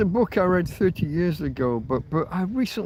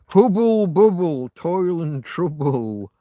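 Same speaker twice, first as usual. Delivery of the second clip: slow, louder witch's chant; 3 semitones higher, 7 dB louder, slower than usual. Retold or imitated. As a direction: croak it like a stirring witch. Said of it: "the witches".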